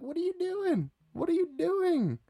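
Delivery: very high, squeaky disbelief; shocked squeal. Retold or imitated. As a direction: squeal it like you can't believe it. Put in a headlock by friend.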